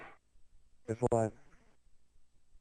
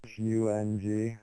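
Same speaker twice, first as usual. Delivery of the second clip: spelling it out; slower than usual. Pretend. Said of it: "Spell that for me".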